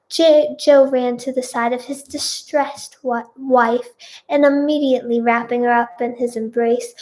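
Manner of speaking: put-on children's TV storyteller narration; story narration. A narrator's reading. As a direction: read it out like a storyteller. Reads fan fiction aloud.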